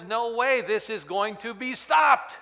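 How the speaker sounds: high, loud emphatic refusal; defiant declaration. Acted. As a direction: ring it out, nothing stops this. Jesus answers, voiced.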